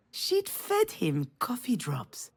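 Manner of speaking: slow, breathy secret whisper. Acted. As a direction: lean in and whisper it slowly. Confiding the hamster's secret.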